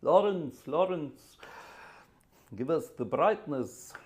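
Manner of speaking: a light imitation of a plummy old actor; lightly voiced Alec Guinness, calling out; Alec Guinness impression. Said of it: "That was my Alec Guinness impression".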